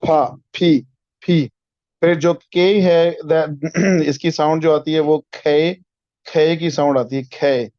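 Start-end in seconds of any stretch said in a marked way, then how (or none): 0.1-1.5 फी with an f sound, not a hard p; airy f as in phone; teacher's ph sound. Shown as a demonstration. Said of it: "you guys would be using it like".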